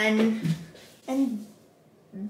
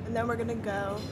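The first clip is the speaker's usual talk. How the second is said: quiet; 8 dB quieter, faster than usual. Real, not acted. Quiet talk at breakfast table.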